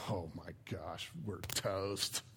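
whisper-low mock panic; terrified. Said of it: "can you feel the terror".

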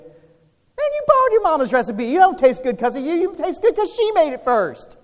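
high-pitched, rushed comic rebuke; exaggerated high-pitched telling-off; mock scolding. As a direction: put on a squeaky, high fussing voice for laughs. Mock scolding of a bragging cook.

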